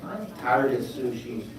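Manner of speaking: a lightly voiced penguin building to a shout. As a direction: whine then demand pasta loudly. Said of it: "looking over going".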